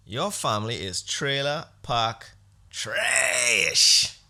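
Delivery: slow, loud, drawn-out jeer; trailer park trash shout. Acted. Ranting host jeering at Biden's family, slow loud shout. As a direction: shout it slowly, savouring the insult.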